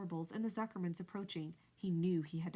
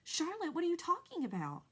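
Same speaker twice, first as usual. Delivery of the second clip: much higher and louder, disbelieving; alarmed outcry; 10 semitones higher, 4 dB louder than usual. A narrator's reading. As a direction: cry it out in alarm. Pig shocked by the news.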